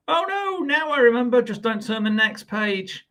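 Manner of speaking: hammed-up dread about the next page; mock panic. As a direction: pretend fear reading to kids. Book warns reader, panicking.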